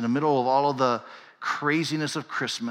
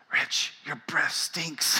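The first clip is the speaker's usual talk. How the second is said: blunt complaint; 2 semitones higher, 5 dB quieter, much slower than usual. Retold or imitated. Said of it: "she looks at me and she goes".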